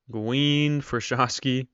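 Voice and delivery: normal talking voice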